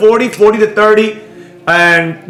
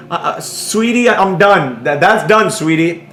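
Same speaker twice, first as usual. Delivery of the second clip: mock mommy voice; 2 semitones lower than usual. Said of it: "I'm doing these voices".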